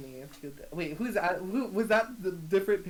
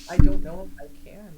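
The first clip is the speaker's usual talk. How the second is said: anguished outburst; 17 dB louder than usual. Acted. Eris torn facing her mother.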